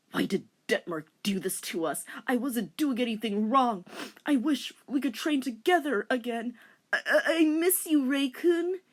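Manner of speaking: rising, stammering longing; hammed-up lovesick wail; pining. Inuyasha pining for Rei.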